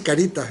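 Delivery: "caritas" as some say it, ca-RI-tas; popular caritas mispronunciation. Retold or imitated. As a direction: quote the misplaced stress on RI in "caritas". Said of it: "Algunos dicen caritas". («caritas» con el acento popular en RI: ca-RI-tas)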